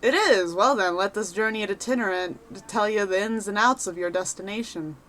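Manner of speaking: a lightly voiced cheerful rogue adventurer; chatty wanderer sizing up a newcomer; folksy adventurer. Reads NPC adventurer lines.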